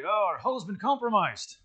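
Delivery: mock-Scottish starship engineer, lightly voiced; bad Scottish accent. Scotty reports hull damage under Klingon attack, rough Scottish accent. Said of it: "that's not a very good Scottish accent".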